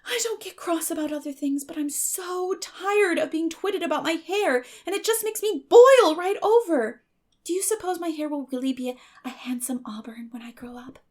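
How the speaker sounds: put-on high, bright girl's voice, chattering on; a dreamy, eager orphan girl pleading; eager Anne. A narrator's reading. Anne complains about her hair.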